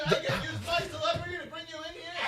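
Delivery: shouted, laughing fake fury, high; hammed-up rage breaking into laughs; mock yelling tirade. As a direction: fake furious rant at the host.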